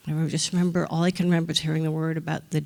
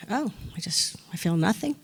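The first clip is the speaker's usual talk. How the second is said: puzzled murmur; 4 dB quieter than usual. Retold or imitated. Retelling her numb reaction.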